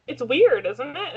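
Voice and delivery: repeating the question so she hears it. Real, not acted.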